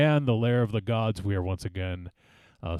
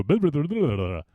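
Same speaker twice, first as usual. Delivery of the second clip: mock Spanish TV announcer; 4 semitones higher, faster than usual. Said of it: "the thing that used to go".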